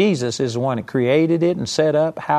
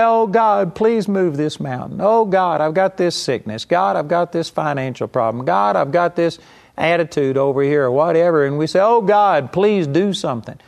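mock pleading prayer; 3 semitones higher than usual. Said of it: "Most Christians speak to God and say".

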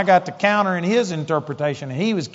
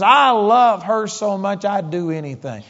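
impassioned; 3 semitones higher than usual. Retold or imitated. Father insisting on his love, impassioned then fading. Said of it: "he just was so violent".

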